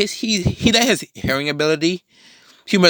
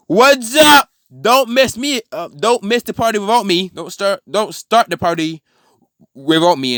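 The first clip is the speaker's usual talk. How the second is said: high, loud hammed-up greeting; hammed-up, high-pitched villain arriving; showy villain entrance; 9 semitones higher, 4 dB louder than usual. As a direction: burst in like a party crasher. Villain crashing the fight, voiced.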